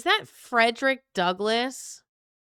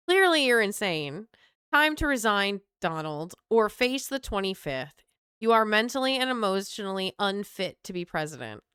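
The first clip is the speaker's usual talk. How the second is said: put-on Southern accent, indignant reader. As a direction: scold in a mock Southern accent. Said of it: "why I'm doing this accent".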